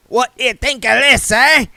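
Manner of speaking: high, loud jolly busybody; cheerful voice. A narrator's reading. Mister Wintler greeting William with cheerful gusto. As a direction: boom it out cheerfully. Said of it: "said a cheerful voice".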